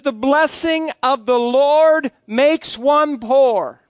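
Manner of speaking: slow, solemn reading with "poor" slipped in as a joke; deliberate misreading. Shown as a demonstration. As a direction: read "poor" as if it were scripture, deadpan. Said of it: "No, in my Bible".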